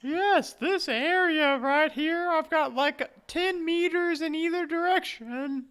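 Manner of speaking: drifting, wistful ghost. Acted. Plays the ghost.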